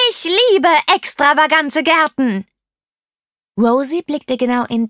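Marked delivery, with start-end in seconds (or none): 0.1-2.5 loud, high, exuberant shout; begeistertes Brüllen. A narrator's reading. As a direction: shout it out in delight. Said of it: "brüllte Tante Rose". (laut und begeistert gebrüllt)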